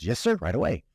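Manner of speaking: eager-to-please clerk, lightly voiced; very excited. Clerk takes the guest's ice cream order, very excited. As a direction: act out a prompt, happy-to-help reply. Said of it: "very excited, very happy to help".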